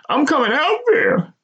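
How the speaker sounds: high, firm mother's voice; mother resolving to fly out; determined mother. A narrator's reading. Mother insists on coming.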